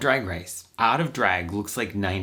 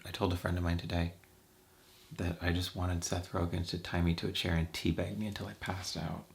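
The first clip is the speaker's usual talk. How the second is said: hushed confession; 6 dB quieter than usual. Real, not acted. Confessing a naughty thought.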